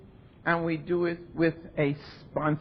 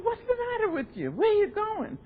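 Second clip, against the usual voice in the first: doorman's line pitched much higher and faster; high quoted doorman; 14 semitones higher than usual. Retold or imitated. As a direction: squeak the doorman's question up high and quick. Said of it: "he said".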